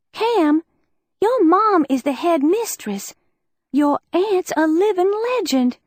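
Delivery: envious accusation; accusing. Acted. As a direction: lay it out bitterly. Liz confronting Cam.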